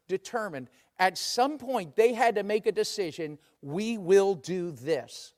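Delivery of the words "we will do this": slow resolve, leaning on "will"; deliberate pace with "will" emphasized; stress on will. Acted. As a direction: draw out "will" as a firm decision. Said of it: "Notice the emphasis on the word will".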